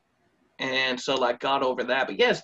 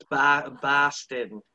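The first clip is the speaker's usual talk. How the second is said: slow Boston accent demo; much slower than usual. Shown as a demonstration. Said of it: "How do you do the accent?".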